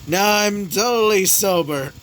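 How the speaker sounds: put-on high, slow drunken insistence; drunk denial. A narrator's reading. Drunk old man insisting he is fine, slurred and high. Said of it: "Did you drink too much".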